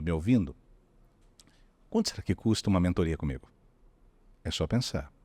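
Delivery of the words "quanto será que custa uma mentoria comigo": calm premium tone. Shown as a demonstration. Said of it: "O tom de voz meio que deu o caminho".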